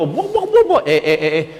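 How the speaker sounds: high sputtering imitation of a raging person; hammed-up possessed ranting noises; mock angry babbling. Preacher mimicking someone who flares up instantly, mock sputtering. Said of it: "kalau ada orang belum apa".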